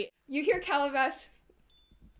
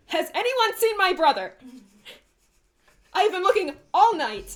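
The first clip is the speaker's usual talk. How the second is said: loud, high-pitched yell through the halls; 8 semitones higher, 5 dB louder than usual. Acted. Bossy Calabash searching the halls for his brother, yelling. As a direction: call out high and loud, overwrought. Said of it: "you hear him yelling".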